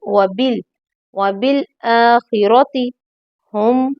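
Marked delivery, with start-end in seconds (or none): 1.1-2.9 व बिल आखिरती with the आ of आखिरती held long; व बिल आखिरती slow, the long vowel held; correct long aa. Shown as a demonstration. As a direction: stretch the आ in आखिरती. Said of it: "आ लंबा होगा".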